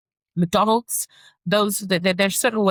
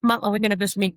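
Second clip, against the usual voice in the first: put-on eager kid nagging, a little higher; lightly voiced child on repeat; mimicking her son; 3 semitones higher, much faster than usual. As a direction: ask again and again like an impatient child. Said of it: "So if it's like".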